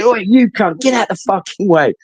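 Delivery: high-pitched mock telling-off; retold angry order. Mimicking authority at a blocking steward, angry order. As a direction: order someone aside, without full shouting.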